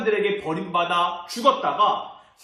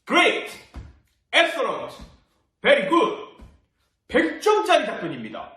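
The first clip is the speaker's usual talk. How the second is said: enthusiastic praise; 6 semitones higher, 3 dB louder, slower than usual. Acted. Preacher praising Peter's answer.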